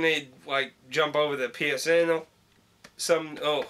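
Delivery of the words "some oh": hiccuping mid-sentence; hiccups. Real, not acted. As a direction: cut off by a hiccup. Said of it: "Just got the hiccups".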